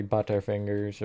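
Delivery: badly faked British accent; British accent, half-hearted and unsure; attempted British accent. Shown as a demonstration. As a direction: have a clumsy go at sounding British. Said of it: "I can't do a British accent".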